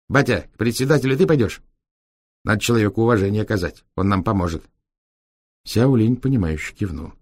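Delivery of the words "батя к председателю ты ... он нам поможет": cheeky raised voice of a Roma driver; gypsy driver voice. Acted. Витёк к пахану. (бойкий голос цыгана-шофёра)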